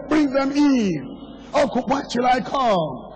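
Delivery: high, insistent preacher's call, phrase by phrase; urgent exhortation. Real, not acted. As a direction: drive each short command home from the pulpit.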